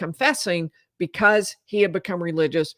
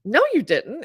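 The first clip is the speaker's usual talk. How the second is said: lightly imitated wife, higher and rising; retold disbelief; 6 semitones higher than usual. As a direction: voice the wife's denial, pitched up. Retold wife's shocked denial of confession.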